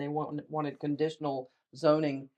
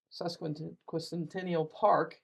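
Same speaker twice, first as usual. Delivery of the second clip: syllable by syllable; much slower than usual. Real, not acted. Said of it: "Say that three times real fast".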